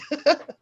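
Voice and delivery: short high nervous laugh; awkward little laugh. Real, not acted. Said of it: "Sorry, I'm a little nervous".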